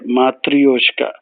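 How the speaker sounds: Matryoshka drawn out very slowly, every syllable stretched; slow careful demo. Shown as a demonstration. Teacher modelling Matryoshka for learners, very slow.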